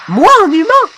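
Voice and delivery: high, loud rising question; indignant disbelief. Acted. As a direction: squeak out an offended question. Offended at being called human. (indignation outrée, très aiguë)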